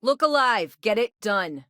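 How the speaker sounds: high, brisk foreman's call; rally the crew from across the floor; calling out orders. Acted. Foreman calls out orders to workers.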